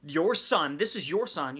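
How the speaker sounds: accusing. Retold or imitated. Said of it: "accusation in, in the older son's voice".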